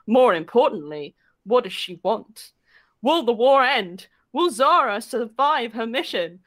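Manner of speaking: mock-epic narrator building to teaser questions; theatrical back-cover narration; story blurb read. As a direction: read it like a pulpy trailer, then land the answer.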